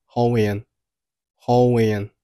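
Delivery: "hallway and" run together, "and" as "en"; linked sounds. Shown as a demonstration. Teacher demonstrating linking, "hallway and" as one word. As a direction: glide from "hallway" into a weak "and". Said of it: "hallway和and连读成了".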